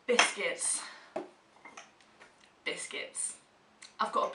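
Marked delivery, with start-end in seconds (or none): 0.1-0.8 announced. Acted. Announcing the word. 2.6-3.4 whispered. Acted. Echoing the word softly.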